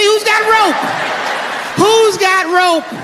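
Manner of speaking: can't believe anyone carries rope; incredulous. Acted. Mocking incredulous question.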